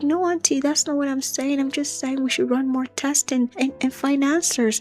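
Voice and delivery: pleading sister. Retold or imitated. Sister pleads with the angry auntie.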